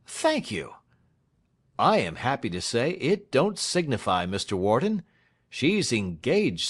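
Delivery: Snitchey breathing easy again; relieved lawyer Snitchey. Acted. Snitchey's voice in dialogue.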